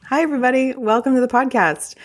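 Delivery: high-pitched, hammed-up cabin-crew greeting; flight attendant voice. Host welcomes listeners to the podcast, in a mock flight attendant voice. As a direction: greet them like an overly perky flight attendant. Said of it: "elected to talk like a flight attendant".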